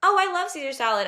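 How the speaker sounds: mocking the people-pleaser friend who echoes everyone; eager people pleaser. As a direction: jump in eagerly to agree. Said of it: "And she would say, like".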